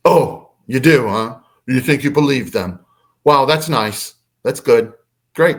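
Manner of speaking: mock-approving, imitating an annoyed mother; sarcastic mom. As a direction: toss out fake praise with a touch of anger. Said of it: "sounds like she was sarcastic".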